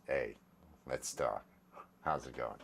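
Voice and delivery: deep voice. Shown as a demonstration. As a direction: drop it an octave. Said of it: "I like to lower it an octave".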